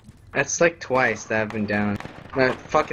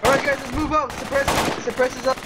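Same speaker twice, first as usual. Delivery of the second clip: high barked command; shouting orders; 12 semitones higher, faster than usual. Real, not acted. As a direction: call it across the field. Squad lead calling orders.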